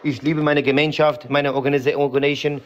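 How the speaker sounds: put-on heavy foreign accent, broken grammar; broken-German accent. Character answering the interviewer in broken accented German. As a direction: play a Kurdish immigrant in broken German.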